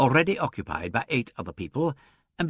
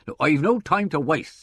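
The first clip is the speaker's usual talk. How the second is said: louder, higher impatient retort; impatient inspector; 6 semitones higher, 6 dB louder than usual. A narrator's reading. Inspector striding to the inner door, impatient. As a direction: push past the delay.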